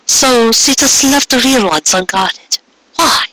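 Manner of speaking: incredulous question. Acted. Pony questioning Trixie in disbelief.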